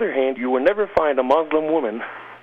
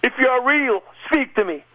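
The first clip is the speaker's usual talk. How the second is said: crying out loud; 10 semitones higher than usual. Retold or imitated. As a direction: call out to the heavens, desperate. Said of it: "I cried out loud".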